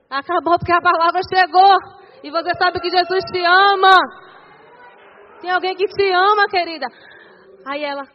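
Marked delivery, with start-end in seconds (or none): 0.1-6.9 raised, ringing preacher's shout; re-enacted full-voiced preaching, higher and louder; forceful proclamation. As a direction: declare it loudly over someone in tears. Retells proclaiming deliverance to weeping woman.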